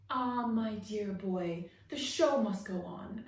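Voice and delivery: slow, loud, grand stage voice; theatrical actor. Acted. Frog actor answering Rip, grand and slow. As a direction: deliver it like an old thespian.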